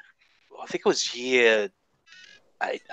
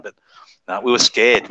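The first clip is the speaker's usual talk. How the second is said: ordinary talk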